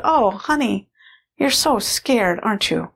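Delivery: put-on tender, slowed comfort to a scared child; a gentle mom calming her frightened daughter; soothing mother. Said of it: "a super maternal, compassionate, caring person".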